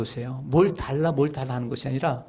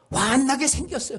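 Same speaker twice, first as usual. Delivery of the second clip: sudden, hot-tempered, angry yell, pitched up; 11 semitones higher than usual. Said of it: "소리를 버럭 지릅니다".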